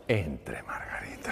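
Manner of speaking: hushed whisper; soft whispered invitation. Retold or imitated. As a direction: whisper her name to call her in quietly. Doctor hushes patient in.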